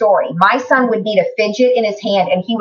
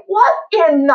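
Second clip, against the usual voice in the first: much higher disbelieving gasp of words; stunned disbelief; 7 semitones higher than usual. Retold or imitated. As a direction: caught completely off guard. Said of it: "And I was like".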